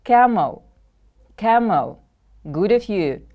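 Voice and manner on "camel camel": Camel with the first syllable stressed, then falling. Shown as a demonstration. Teacher modelling a new word for pupils, first-syllable stress. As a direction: stress the start of "Camel", let the end drop. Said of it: "The stress is on the first syllable".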